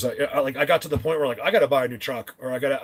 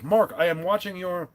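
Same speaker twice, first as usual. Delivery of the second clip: higher-pitched, badly faked Italian accent; poor Italian accent; 5 semitones higher than usual. Retelling an Italian friend's message, attempted Italian accent. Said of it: "I can't do an Italian accent".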